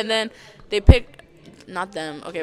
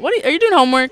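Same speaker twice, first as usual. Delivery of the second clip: calling out; 6 semitones higher, 10 dB louder, much faster than usual. Real, not acted. Calling over to a friend.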